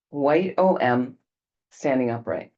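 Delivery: slowed right down, each word set apart; slow repeat. Shown as a demonstration. Teacher repeating the image slowly for the class. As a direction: spell it out slowly so it sinks in. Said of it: "a white O M standing upright".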